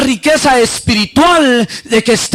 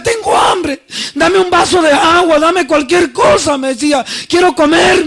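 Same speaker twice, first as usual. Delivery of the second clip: higher, tearful begging for food, dragging out the last plea; tearful pleading; 3 semitones higher than usual. Retold or imitated. Hungry woman weeping to the preacher, tearful begging. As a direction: imitate a sobbing woman crying out for anything to eat. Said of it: "pero a mares llorando".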